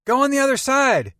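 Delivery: put-on high, lively teenage boy voice; young Peter talking about his grandma. A narrator's reading. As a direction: play the chatty kid in the back seat.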